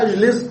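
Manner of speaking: أجلس begun with a, "ajlis"; wrong fatha on the alif. Shown as a demonstration. Teacher ruling out a form, أجلس begun with a. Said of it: "لا نقول".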